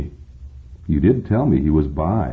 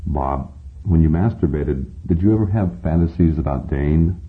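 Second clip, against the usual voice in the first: gently. Acted. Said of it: "Siegfried says gently".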